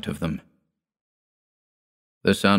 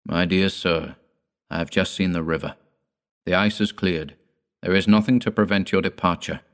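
natural way. Acted. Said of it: "in the most natural way".

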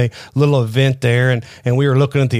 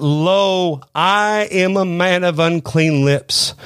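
slow, slightly raised, weighty admission; solemn confession; 3 semitones higher, much slower than usual. Acted. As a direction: draw out the confession word by word. Repeats Isaiah's confession.

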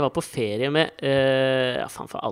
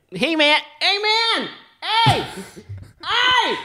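calling out; much slower than usual. Pretend. American skeleton calling from the toilet.

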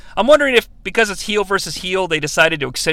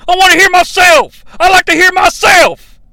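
higher, held-nose underwater radio voice; pinching nose; 13 semitones higher, 7 dB louder than usual. Retold or imitated. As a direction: pinch the nose like a bad mic. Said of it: "'cause I'm holding my nose to, to simulate that".

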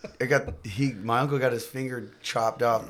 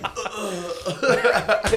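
mock disgusted grunt; 8 semitones higher than usual. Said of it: "I'm like".

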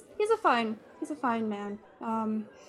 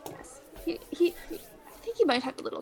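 whisper; 4 semitones higher, 5 dB quieter than usual. Real, not acted. Gossiping in a hushed whisper.

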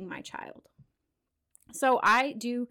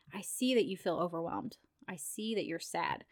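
soft validating; 3 semitones lower, 6 dB quieter than usual. Shown as a demonstration. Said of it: "I would say".

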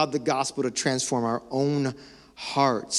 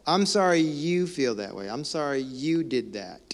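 mock insincere apology. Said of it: "Someone else is still at fault".

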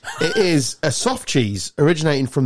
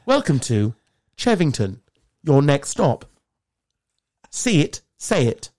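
tube announcer; slower than usual. Pretend. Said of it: "I want the job on the tube".

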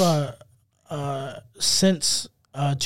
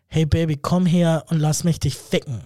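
German dirty talk. Shown as a demonstration. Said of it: "It's like, ... It doesn't sound good".

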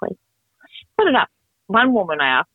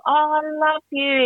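high, drawn-out imitation of adoration; gushing supporter; 10 semitones higher, much slower than usual. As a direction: gush like an adoring fan, stretching it out. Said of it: "she's, like, right into it".

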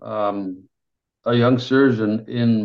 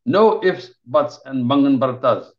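slap down the excuse at once; sharp surgeon; 2 semitones higher, 5 dB louder than usual. Acted. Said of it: "Ravi says sharply".

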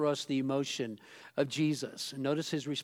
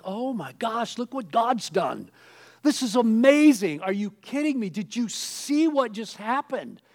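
higher, louder, thrilled exclaiming; amazed celebration; 6 semitones higher, 5 dB louder than usual. Retold or imitated. Preacher imitating a churchgoer amazed by a miracle. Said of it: "You're like".

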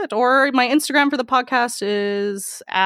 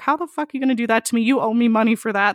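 mildly indignant, fast start, pitched up at first; retold anger; faster than usual. Escort retelling her complaint to a paranoid client, mildly angry. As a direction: retell being mad, starting in a rushed mock outburst. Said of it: "And I was so mad".

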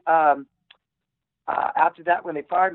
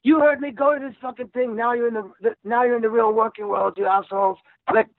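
raised, harsh Australian boss voice barking orders; mock Australian accent; 10 semitones higher than usual. Dispatcher yelling at couriers over the radio, mock Australian accent. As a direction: ham up a brutal Australian dispatcher. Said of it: "Australian accent".

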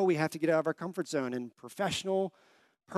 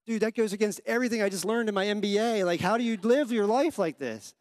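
higher and louder, in disbelief; incredulous outburst; 6 semitones higher, 5 dB louder than usual. Real, not acted. Pastor reacting to friend's prayer advice, incredulous and loud. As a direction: throw up your hands in amazement.

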